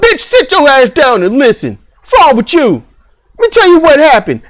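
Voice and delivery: sharp, fast telling-off; mock telling off. Husband snapping at his wife to sit down and listen. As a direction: put her in her place, quick and firm. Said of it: "you just break out".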